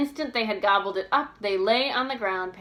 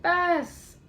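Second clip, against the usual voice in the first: high, loud impatient call; impatient shout; 10 semitones higher, 5 dB louder than usual. A narrator's reading. George calling Bess impatiently from hiding, shouting. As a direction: yell her name, fed up waiting. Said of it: "the voice shouted impatiently".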